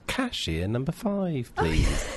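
put-on slow, drawn-out announcement in an English accent; mock English cashier. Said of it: "the woman at the airport at the magazine that goes".

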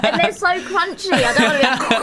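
talking through crisps; words round a mouthful of crisps; mouth full. Real, not acted. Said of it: "she's got a mouthful of crisps".

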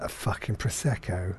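a muttered outraged aside kept under the breath; unspoken indignant retort. Retold or imitated. To himself at the pub, muttered outrage. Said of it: "but I didn't say this".

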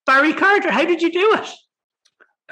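high, slow, stretched announcer call; ring announcer. Acted. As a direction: drag out the name like a ring announcer. Hyped announcer intro to guest.

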